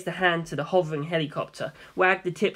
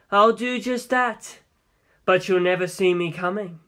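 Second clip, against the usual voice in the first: cocky Funny. Acted. Funny answers Kaz.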